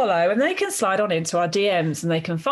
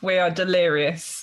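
flat, toneless deadpan delivery; monotone voice; 2 semitones lower than usual. Real, not acted. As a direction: say it with no melody at all. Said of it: "with the most monotone voices ever".

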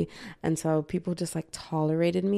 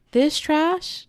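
higher, louder scoff at this trash; mock disgust; 11 semitones higher, 5 dB louder than usual. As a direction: sneer it like a snob. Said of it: "And I'm like".

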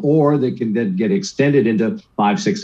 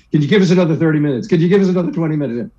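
fast, higher pleading rush; begging dad; 4 semitones higher, much faster than usual. Retold or imitated. Boy on the phone begs his dad for more time, fast. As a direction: rattle off the plea to stretch curfew.

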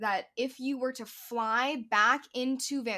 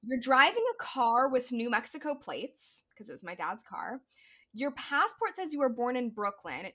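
border officer; 2 semitones higher than usual. Retold or imitated. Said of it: "And he says".

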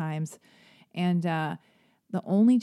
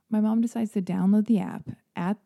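ordinary delivery

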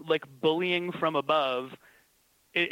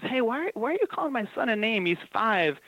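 confronting mom; 6 semitones higher than usual. Retold or imitated. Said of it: "confronts her and says".

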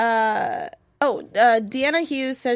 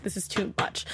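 overwhelmed whisper; 8 dB quieter than usual. Retold or imitated. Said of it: "I was like".

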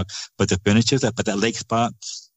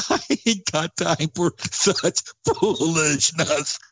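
dismissive; 7 semitones higher, slower than usual. Retold or imitated. Retold dismissive relative, laughing.

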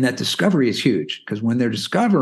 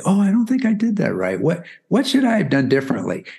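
mock confusion; 6 semitones higher than usual. Shown as a demonstration.

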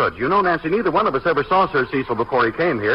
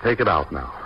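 tender; 6 semitones lower than usual. Acted. Husband gently insists wife keep coat.

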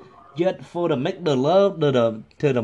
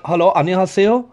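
mock Korean caller; much faster than usual. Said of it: "I'll be Korean".

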